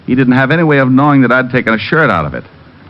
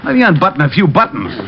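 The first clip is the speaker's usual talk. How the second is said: strained protest; 10 semitones higher than usual. Acted. Collar grabbed while checking shirt.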